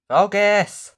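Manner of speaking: sudden loud high yell; loud frustrated yell at the lens; shouted command. Real, not acted. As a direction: bark it at the camera. Yelling at camera to focus.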